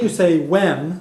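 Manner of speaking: slow, careful "wem"; teacher modelling Irish; Irish word demo. Shown as a demonstration. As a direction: model "wem" slowly for learners. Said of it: "Now to say from me".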